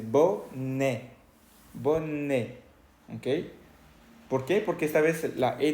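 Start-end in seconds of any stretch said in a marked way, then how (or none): 0.0-2.6 "bonnet" as bo-né, T silent; demonstrated French pronunciation. Shown as a demonstration. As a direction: say "bonnet" in two clear syllables, bo-NÉ. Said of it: "Escuche cómo se dice". ("bonnet" en francés, bo-né, sin pronunciar la T)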